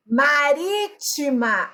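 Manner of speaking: MARÍTIMA slowly, leaning on RÍ; stress on RÍ. Shown as a demonstration. Teacher introducing an example, marítima slow with stressed RÍ. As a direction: spell out marítima by ear with a lengthened RÍ. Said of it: "A sílaba tônica é o ri".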